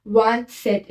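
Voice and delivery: वांत सेट as "vant" plus "set"; French pronunciation. Shown as a demonstration. Teacher modelling twenty-seven in French, वांत सेट pronounced the French way. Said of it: "क्या बोलते हैं?".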